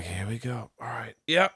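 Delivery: very quiet resigned mutter; resigned sigh. Retold or imitated. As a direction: brace yourself under your breath. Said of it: "you're like".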